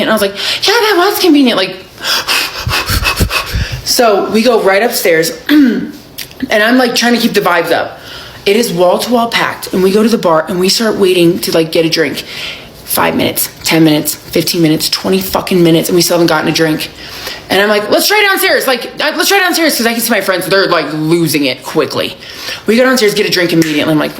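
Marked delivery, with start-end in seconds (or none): 0.7-1.6 high, smug "convenient"; smug echo. Retold or imitated. 17.9-19.8 high, bright suggestion; rally the group cheerily; upbeat rallying. Retold or imitated. Rallying bored friends.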